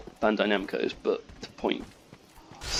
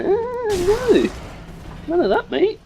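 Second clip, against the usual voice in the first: sudden scolding; 5 dB louder, slower than usual. Real, not acted.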